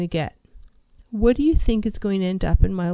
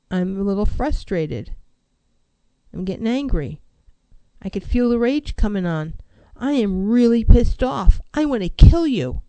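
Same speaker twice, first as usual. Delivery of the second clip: anger rising in volume. Shown as a demonstration. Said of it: "I talk about feelings in terms of volume".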